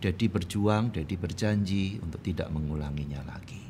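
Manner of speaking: low, subdued retold apology; permintaan maaf ayah. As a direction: apologise quietly to your child. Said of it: "saya katakan kepada dia". (meminta maaf dengan suara rendah dan lembut)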